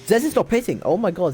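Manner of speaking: loud, high burst of disbelief; excited race call. Real, not acted. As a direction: call it urgently, astonished at the gamble.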